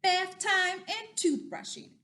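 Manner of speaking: loud, high storybook announcement; big shouted reveal for kids; dramatic challenger reveal. Acted. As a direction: announce it like a mighty opponent. Announces dinosaur's next opponents.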